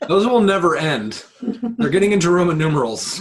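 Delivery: real laughter breaking into each word; laughing. Real, not acted. Laughing at endless sequels.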